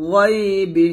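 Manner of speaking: গায়বি with a thick, heavy গ; heavy gha. Shown as a demonstration. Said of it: "গয় মোটা করে".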